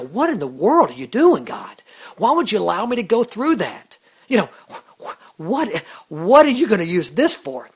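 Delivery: mild frustrated outcry; exasperated plea to God. Retold or imitated. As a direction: demand an answer from heaven. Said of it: "I look up to God and go".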